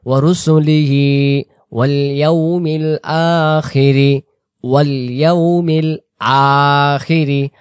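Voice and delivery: slow, drawn-out Arabic recitation; recitation demo. Shown as a demonstration. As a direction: recite each phrase slowly for students to repeat. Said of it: "উচ্চারণটা করি". (ধীরে টেনে তিলাওয়াত)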